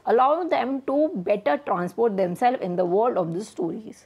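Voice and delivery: slow, careful reading of the definition. Shown as a demonstration. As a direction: read it out slowly for the class. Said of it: "reading the definition slowly". (धीमी गति से परिभाषा पढ़ना)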